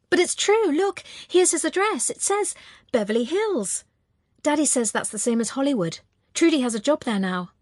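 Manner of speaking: put-on high child's voice, protesting innocence; childish high-pitched insistence, easing as he explains; insistent little boy. A narrator's reading. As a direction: pipe up like a small boy proving his point. Small boy insists to his mother.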